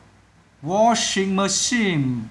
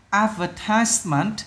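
"Advertisement" slow and higher, stress on AD; first-syllable stress; 4 semitones higher, slower than usual. Shown as a demonstration. Teacher showing where the word is stressed, first-syllable stress. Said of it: "là âm đầu".

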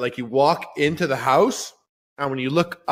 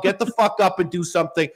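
rough scolding command; blunt scolding order; faster than usual. Acted. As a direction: bark the order at the listener. Tough-love rant at listeners.

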